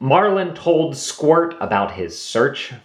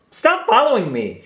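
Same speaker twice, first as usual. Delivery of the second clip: mock shout; 8 semitones higher than usual. A narrator's reading. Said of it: "she shouted".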